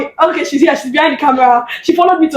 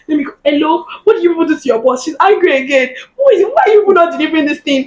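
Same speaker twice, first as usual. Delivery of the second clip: imitating an indignant mother on the phone; quick, lightly heated telling-off; mock scolding; 3 semitones higher than usual. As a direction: act out mum chasing up suppliers. Voices mother scolding suppliers by phone.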